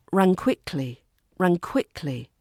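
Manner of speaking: "ran" joined straight into "quickly"; linked words. Shown as a demonstration. Teacher demonstrates connected speech, "ran" linked into "quickly". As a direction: link "ran" and "quickly" with no gap between them. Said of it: "unstressed words often link to nearby stressed".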